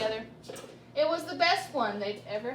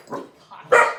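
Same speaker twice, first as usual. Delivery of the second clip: exasperated cry; 10 semitones higher, 11 dB louder than usual. Real, not acted. Teller exasperated at interruptions.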